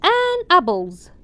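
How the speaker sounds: An apples drawn out slowly and loud; slow loud read. Shown as a demonstration. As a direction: read the exercise line slowly to the class. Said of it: "slow loud read".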